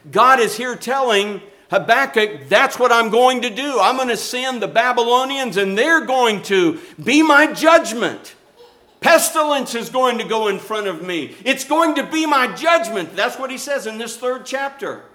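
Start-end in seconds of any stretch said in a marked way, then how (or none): 2.5-13.1 God pronouncing judgment. Acted. Preacher voicing God declaring judgment.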